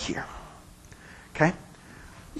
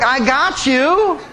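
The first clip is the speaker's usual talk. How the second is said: sneaky bride; 2 semitones higher, slower than usual. Retold or imitated. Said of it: "don't she just look sneaky".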